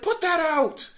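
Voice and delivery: high mock yell; ranger yelling. Ranger ordering kids to put fire out, high yell. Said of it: "and he's like".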